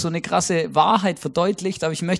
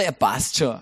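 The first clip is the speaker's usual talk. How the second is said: much lower, softer Austrian „Ja, passt schon“; Austrian shrug; 8 semitones lower, 4 dB quieter, slower than usual. Retold or imitated. Preacher showing how Austrians tick, low laid-back Austrian. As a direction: mumble it like a relaxed Austrian. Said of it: "genauso ticken sie auch".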